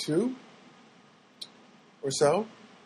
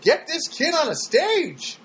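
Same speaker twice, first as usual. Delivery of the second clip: sarcastic quip; 10 semitones higher, slower than usual. Retold or imitated. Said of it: "And I said".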